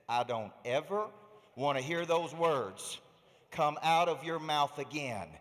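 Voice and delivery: slow, emphatic mock scolding; stern little daughter. Seven-year-old scolding her father with his own words, mock stern. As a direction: lightly imitate a child lecturing her dad, word by word.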